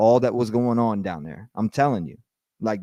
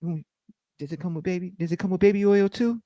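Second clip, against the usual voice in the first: mock sellout; 6 semitones higher, 5 dB quieter than usual. Mocking the rivals meeting a rapper, sly and soft. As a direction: mumble the deal, then ask about the baby oil. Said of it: "a rapper walks in the room".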